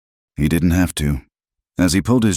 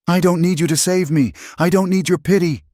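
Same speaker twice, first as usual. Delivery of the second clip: very high, fierce refusal; anguished outburst; 14 semitones higher than usual. A narrator's reading. Woman refusing to be saved, crying out in anguish. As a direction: push him off with a high cry. Screaming quarrel continues.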